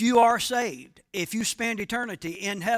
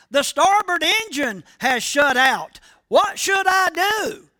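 loud, higher panicky shout, rising at the end; panicked shout; 7 semitones higher, 5 dB louder than usual. Retold or imitated. Pilot shouting to the control tower as his engine stalls, louder and higher panic. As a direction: yell for help as the engine dies. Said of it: "and he shouted".

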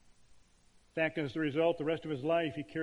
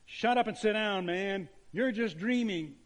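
retold yell; 4 semitones higher than usual. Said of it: "he yelled out".

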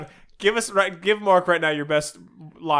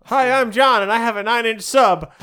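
cheesy pickup line; 5 semitones higher, 6 dB louder than usual. Pretend. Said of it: "what's the first thing you say".

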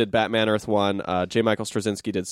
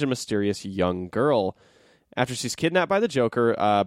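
dramatic blurb reading; 2 semitones higher than usual. Acted. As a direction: read it like a movie trailer.

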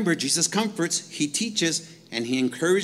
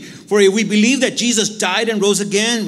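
louder proclamation of the verse; preaching scripture; 4 semitones higher, 7 dB louder than usual. Acted. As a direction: ring the verse out to the church.

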